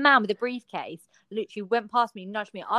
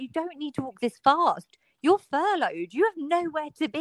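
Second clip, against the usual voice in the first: raised pitch, exasperated retelling; mock exasperation; 5 semitones higher, 3 dB louder than usual. Telling the hosts how she scolded her speed-walking boyfriend, mock exasperated. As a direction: imitate yourself protesting at being rushed, voice lifted.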